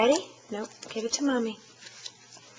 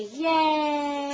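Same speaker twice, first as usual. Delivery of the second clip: put-on prompting a toddler; 6 semitones higher than usual. Shown as a demonstration.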